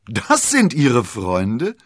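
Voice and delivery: slow, loud astonished cry; stunned to see who the friends are; surprised outcry. Acted. D'Artagnan recognizes his two opponents, loud surprised cry. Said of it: "rief er und musste unwillkürlich lachen".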